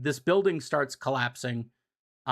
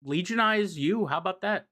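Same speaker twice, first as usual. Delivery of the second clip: higher, smug mock villain voice; pitched-up cartoon bad guy, toying with his victim; Robotnik voice; 5 semitones higher than usual. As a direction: ham up a scheming villain offering a deal. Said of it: "Robotnik's like".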